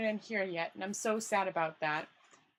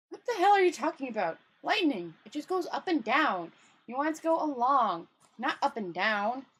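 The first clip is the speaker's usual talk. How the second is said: exasperated; 3 semitones higher, 4 dB louder than usual. Acted. Rincewind exasperated at imp.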